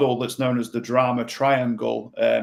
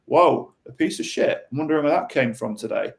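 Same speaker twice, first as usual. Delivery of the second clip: gentle curious echo. Shown as a demonstration. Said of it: "ask a more helpful question".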